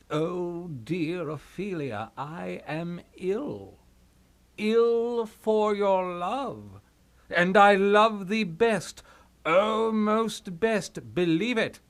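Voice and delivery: slow, swooning reading; mock love letter. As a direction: ham up the lover's words. Polonius reads love letter mockingly.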